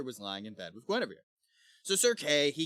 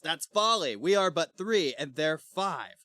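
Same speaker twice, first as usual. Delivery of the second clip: acted protest; 4 semitones higher, 5 dB louder than usual. Acting Gawain's objection.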